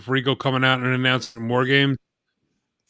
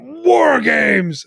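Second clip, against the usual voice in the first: loud, higher announcer yell; shouted announcement; 8 semitones higher, 4 dB louder than usual. Retold or imitated. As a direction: announce it like a wrestling show. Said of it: "and they just went".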